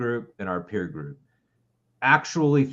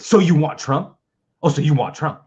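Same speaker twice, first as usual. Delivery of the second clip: higher, louder, scornful mock voice; mocking centrist Democrat; 4 semitones higher, 6 dB louder than usual. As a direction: sneer it like a smug party loyalist. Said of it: "jump down your fucking throat with".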